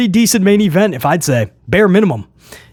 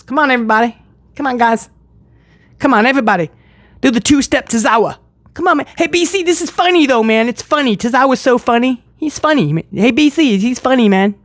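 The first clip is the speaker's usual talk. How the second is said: higher-pitched hammed-up fan cheerleading; mock eager fan; 5 semitones higher than usual. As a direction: mimic an over-keen fan egging everyone on. Mimics fans hyping Tozawa's dance.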